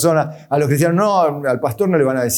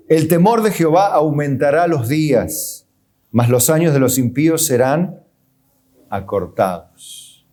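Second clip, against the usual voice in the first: scripture reading. Acted. Reading a Bible verse aloud.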